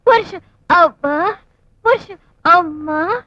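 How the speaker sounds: coy. Acted. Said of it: "తెక్కల చేస్తున్నావు".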